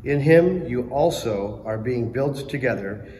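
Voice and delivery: measured formal reading; scripture reading. Real, not acted. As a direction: proclaim the reading clearly. Lector reading scripture aloud.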